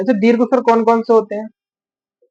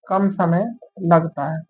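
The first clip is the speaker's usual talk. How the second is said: "कम समय लगता है" said slowly and a bit lower, word by word; slow dictation; 3 semitones lower, 5 dB quieter, slower than usual. Shown as a demonstration. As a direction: repeat it slowly so the class can write it down. (धीरे-धीरे लिखवाते हुए "कम समय लगता है")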